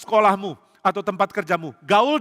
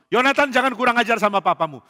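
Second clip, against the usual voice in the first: high, raised scolding voice; very angry father; 6 semitones higher, 4 dB louder than usual. Acted. Angry king rebuking his son for insolence, furious scolding. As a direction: scold your son in anger. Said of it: "Papa marah sekali".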